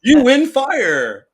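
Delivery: big slow game show host boom; booming prize announcer. Pretend.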